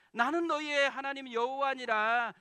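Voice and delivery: loud, high proclamation of God's word; emphatic voice of God. Pretend. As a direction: preach it out at full force. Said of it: "무슨 말이겠어요".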